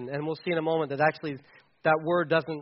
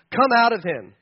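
louder, firm order; stern command; 3 semitones higher, 5 dB louder than usual. Acted. Jesus commanding the spirit to leave the man. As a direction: cast the spirit out with authority. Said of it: "said Jesus sternly".

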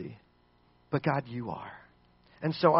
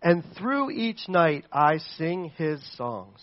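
slow confident psalm reading; slower than usual. Acted. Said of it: "He says".

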